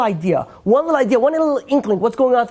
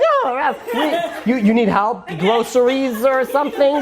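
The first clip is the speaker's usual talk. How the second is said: lightly voiced eager helper, high at the start; suddenly all sugary politeness to the rabbi; sweet offer of help; 4 semitones higher than usual. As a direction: driver meeting his rabbi, turns sugary sweet. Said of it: "the rabbi turns around and be like".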